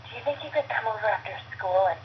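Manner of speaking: lightly voiced seductive mom; a hint of whispered come-on; steamy mom voice. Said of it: "Can you do the voice? Of my mom?".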